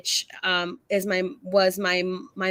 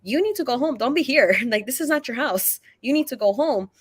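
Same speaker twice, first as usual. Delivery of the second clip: retold scolding; 3 semitones higher than usual. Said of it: "I'm scolding him".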